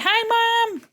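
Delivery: ordinary talk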